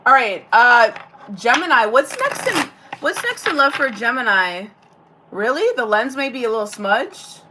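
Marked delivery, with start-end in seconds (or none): 5.3-5.7 "Really?" with a bright rising pitch; asking "Really?" in mild surprise; surprised "Really?". Real, not acted. Viewer comment about smudged lens, surprised question. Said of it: "Really? ... Really?".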